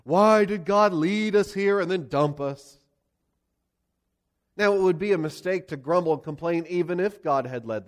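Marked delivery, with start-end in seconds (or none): 0.0-2.8 hammed-up outraged king; scandalized whine. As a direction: play the wounded victim blaming God. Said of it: "He acts scandalized".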